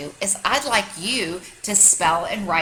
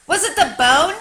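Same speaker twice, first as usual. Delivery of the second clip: raised, higher call across the yard; 8 semitones higher, 9 dB louder than usual. A narrator's reading. Dog calling up to the bird in the tree, loud call. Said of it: "he called out to the bird".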